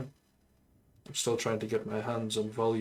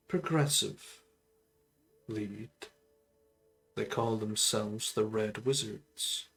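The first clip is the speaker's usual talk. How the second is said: solemn undead sorcerer voice; a measured, brooding lich; lich character voice. Acted. Undead lich tells her backstory.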